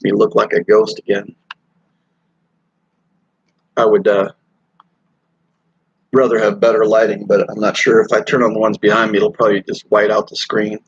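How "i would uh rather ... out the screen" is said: talking while eating; words around a bite of food; mouth full. Real, not acted. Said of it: "Sorry, I'm gonna keep eating here".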